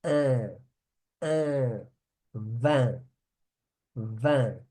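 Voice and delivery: "Un" and "vin" each said alone with a nasal vowel, no n sound. Shown as a demonstration. Teacher drills students on nasal "un" and "vin". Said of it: "Esse I N é bem nasal".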